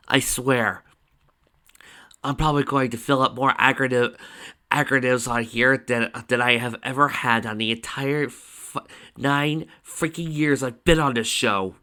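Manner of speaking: loud, fed-up grumbling; sigh, then complain with emphatic force; exasperated aside. Acted. Performer fed up with the show's acronyms, exasperated.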